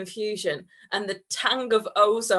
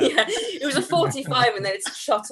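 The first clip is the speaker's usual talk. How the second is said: laughing; 4 semitones higher than usual. Real, not acted. Giggling over friend's joke.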